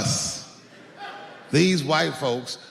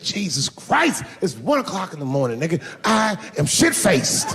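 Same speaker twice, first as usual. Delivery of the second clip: put-on exasperated drunk dad. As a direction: drag it out annoyed.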